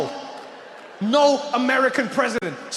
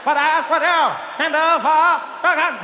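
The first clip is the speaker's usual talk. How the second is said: John F. Kennedy; 5 semitones higher, slower than usual. Retold or imitated. President addresses the nation, exaggerated JFK impression. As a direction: declaim each phrase like a caricatured statesman. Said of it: "like J F K. ... he didn't speak normal".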